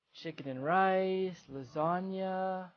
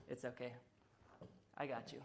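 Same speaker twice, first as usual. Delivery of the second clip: soft reassuring; 8 semitones lower, 17 dB quieter than usual. Acted. Consoling softly.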